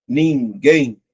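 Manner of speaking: "Ninguém" split in two, weight on GUÉM; syllable by syllable. Shown as a demonstration. Teacher sounding out an option, syllable by syllable. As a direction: separate NIN and GUÉM in "Ninguém". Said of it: "Vou separar".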